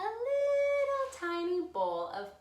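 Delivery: tiny little voice. A narrator's reading. Tiny bowl for Baby Bear.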